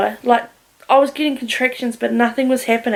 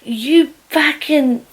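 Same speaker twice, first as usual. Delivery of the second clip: imitating an angry mum's rant; mildly heated, higher-pitched scolding; 3 semitones higher than usual. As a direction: tell someone off, trailing into blah-blah sing-song. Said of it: "My mum was so angry".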